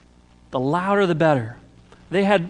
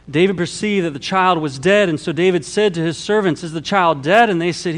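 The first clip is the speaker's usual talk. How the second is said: raised, urgent Bible narration; emphatic scripture reading; 2 semitones higher, 5 dB louder than usual. A narrator's reading. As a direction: read the passage out with force.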